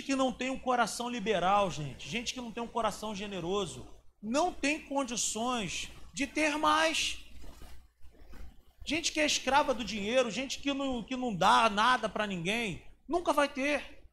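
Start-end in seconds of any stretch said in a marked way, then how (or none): 4.2-14.0 fervent preaching. Acted. Preaching about generosity.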